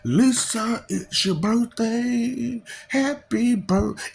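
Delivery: a hint of a bratty cartoon kid; lightly voiced cartoon boy, slow; mock Springfield brat; Bart Simpson. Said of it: "Bart Simpson".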